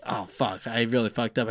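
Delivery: low, quiet self-reproach; muttered regret. Retold or imitated. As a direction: mutter it under your breath. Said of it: "I'm like".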